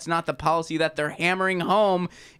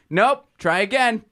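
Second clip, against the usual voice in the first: high, loud dismissive nope; mock buzzer rejection; 7 semitones higher, 4 dB louder than usual. Rejecting a politician's answer, high, loud and dismissive. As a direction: shut them down like a game show host. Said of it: "beep this horn whenever you bring up".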